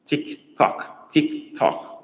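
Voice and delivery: mock clock ticking; crisp, toneless countdown tick tock. Mimicking a clock ticking for students.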